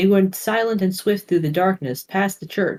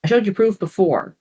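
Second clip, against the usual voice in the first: snapping; 3 semitones higher than usual. Acted. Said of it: "snapped Sarah".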